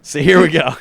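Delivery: attempted New Zealand accent, edging Australian. Podcast host warning listeners, rough New Zealand accent. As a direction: slip into your best New Zealand accent. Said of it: "I'm gonna do my best New Zealand accent".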